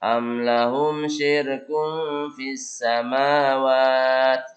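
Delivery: "samawat" ending on a clipped t; stopping on samawat. Shown as a demonstration. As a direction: stop cleanly on "samawat". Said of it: "Kalau stop di sini".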